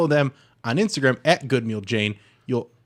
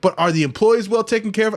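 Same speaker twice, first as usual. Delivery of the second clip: mock concerned customer; 9 semitones higher, 4 dB louder, faster than usual. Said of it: "And he's like".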